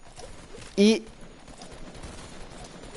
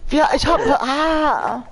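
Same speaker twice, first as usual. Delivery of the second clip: raging gamer; 11 semitones higher, slower than usual. Real, not acted. Raging at teammate mid-game.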